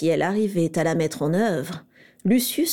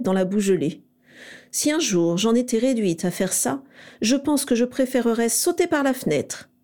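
lightly voiced scornful young witch, pitched up; haughty Narcissa; 4 semitones higher than usual. Narcissa to Lucius, scorning muddy work, mock-haughty. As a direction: sniff at the idea with mild disdain.

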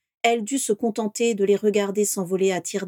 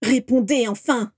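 insistent demand; 3 semitones higher, 3 dB louder than usual. Acted. Eleanor demands an answer again.

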